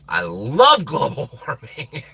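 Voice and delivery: slow, laughing through the words; laughing sarcasm. Real, not acted. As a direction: chuckle while saying it. Ironic repeat, laughing.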